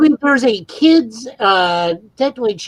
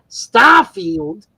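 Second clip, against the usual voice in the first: drawn-out mock yell of a meme line; a lightly put-on cartoon voice, stretched out; John Arbuckle. Co-host mocking the overhyped developer direct with a meme, drawn-out imitation yell. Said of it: "we still yell in John Arbuckle's voice".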